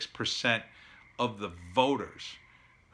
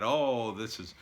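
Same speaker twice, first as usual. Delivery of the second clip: mocking whiny quote. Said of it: "Michael Moores in the world posturing".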